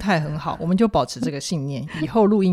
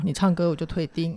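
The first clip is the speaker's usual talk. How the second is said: trying not to laugh; 3 dB quieter than usual. Real, not acted. Host jokes about listener complaints.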